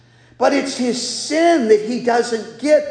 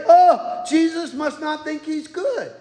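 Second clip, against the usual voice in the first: mocking commentator; 5 semitones higher than usual. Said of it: "dumb commentators will say".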